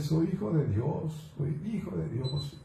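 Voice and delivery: mildly moved, pitch lifted on the repeat; touched, imitating a new believer; retold emotional declaration. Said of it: "Y se emocionaba diciendo".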